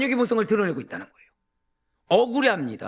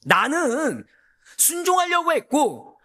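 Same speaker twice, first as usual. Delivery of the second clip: mildly acted indignant excuse, higher pitch; mock protest; 6 semitones higher than usual. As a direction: act out a believer protesting to God. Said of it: "라고 항변해 봤자".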